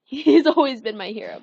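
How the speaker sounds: said again through a real laugh. Real, not acted. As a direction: laugh it out, a bit embarrassed at gushing.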